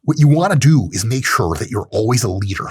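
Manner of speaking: lightly voiced macho guru, self-admittedly bad; a hint of a swaggering alpha lecturer; Andrew Tate impression. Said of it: "Here's my shit Andrew Tate impression".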